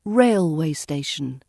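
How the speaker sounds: railway station with the weight on the first syllable; stress on rail. Shown as a demonstration. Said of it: "stress falls on the rail of railway".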